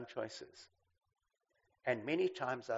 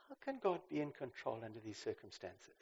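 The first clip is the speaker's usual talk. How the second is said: aching question; 2 semitones lower, 6 dB quieter than usual. Shown as a demonstration. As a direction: ask it quietly out of real pain. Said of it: "your tone of voice when you ask a question is critical".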